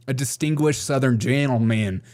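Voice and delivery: distinguished Southern gentleman, slow drawl; hammed-up Southern senator, slowing to the end; Lindsey Graham impression. Shown as a demonstration. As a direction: drag out the vowels like a genteel South Carolinian. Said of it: "you have to talk like a".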